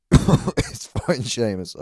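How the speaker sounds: loud, high-pitched dismissal; over-loud mock insistence; retold brush-off. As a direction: act out waving off the host mid-set. Retelling brushing off the host.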